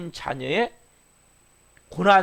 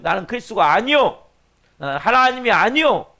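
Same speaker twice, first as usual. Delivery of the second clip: loud, raised declaration, landing hard on 아니요; emphatic declaration; 4 semitones higher, 5 dB louder than usual. Acted. Preacher voices John's confession to the congregation, emphatic declaration. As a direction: declare it firmly, 아니요 pushed up high and loud.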